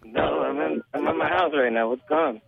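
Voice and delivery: hollow, like talking into a bottle; muffled bottle sound over the phone; blocked nose hollow. Real, not acted. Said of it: "you sound like you're talking into a bottle or something".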